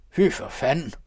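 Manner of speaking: loud, high curse; angry shout. A narrator's reading. Count Hemming cursing his guests, a loud shout. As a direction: bellow it at the rowdy guests. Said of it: "råbte grev Hemming".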